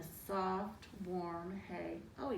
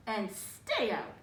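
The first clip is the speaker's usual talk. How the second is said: firm mouse; 4 dB louder, slower than usual. Acted. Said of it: "he said".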